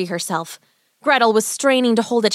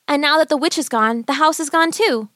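put-on wondering girl; 7 semitones higher than usual. Girl marvels at vanished house.

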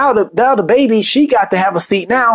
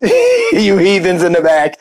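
lower, slow, snooty mock attendant brushing off coach with a laugh; mock aggressive attendant; 4 semitones lower, slower than usual. First-class crew scolding the heathens in the back, mock haughty. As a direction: lord it over the back rows, drawn out and laughing. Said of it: "and did it real aggressive".

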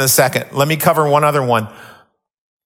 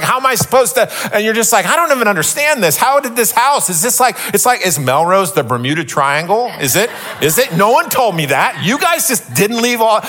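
higher, baffled venting at the house; exasperated disbelief; 6 semitones higher than usual. Retold or imitated. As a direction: throw up your hands, bewildered. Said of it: "And you're like".

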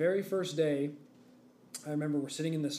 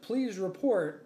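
automated voice; 5 semitones higher, 3 dB louder, much slower than usual. Retold or imitated. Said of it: "the automated voice said".

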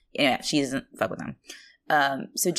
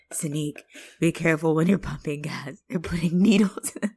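imitating a breathless mother; words trailing into breath, as retold. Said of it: "she's all out of breath, too".

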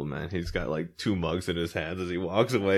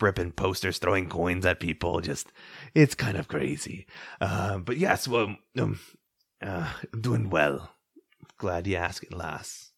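put-on grumpy old man. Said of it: "old man voice or barkeep voice".

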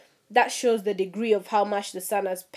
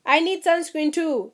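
high, sharp no, bitch; talking back to the friend, a higher sassy no; sassy retort; 6 semitones higher than usual. Real, not acted. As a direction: snap back with attitude.

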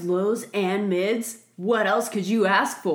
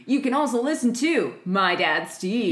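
infomercial voice. Pretend. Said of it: "completely different person now ... selling me OxyClean".

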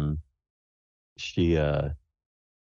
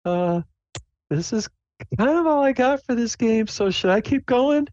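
very high, hesitant little character voice; Sable. Acted. Player's character asking the hostess to keep going, high and hesitant. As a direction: squeak out an uncertain question. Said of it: "Sable looks at her and goes".

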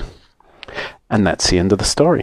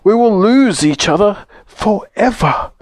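high-pitched, acted dread; high, frightened storybook voice; trembling doll; 11 semitones higher than usual. A narrator's reading. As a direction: voice the doll's fear of losing everyone. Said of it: "trembles the Russian doll".

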